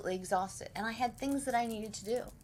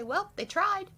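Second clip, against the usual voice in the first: mock epitaph; 10 semitones higher, 6 dB louder than usual. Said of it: "my husband's tombstone is gonna say".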